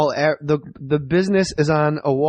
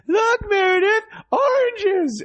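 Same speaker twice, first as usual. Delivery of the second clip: imitating his son; slower than usual. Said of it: "Like, he goes".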